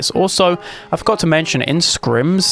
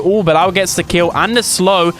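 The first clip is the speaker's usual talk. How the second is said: excited; 4 semitones higher than usual. Real, not acted. Caster hype on a big play.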